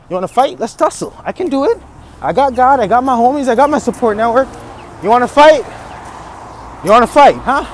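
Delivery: worked-up challenge to an imaginary opponent; mock fight challenge. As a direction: goad life into a playful tussle. Squaring up to life for fight.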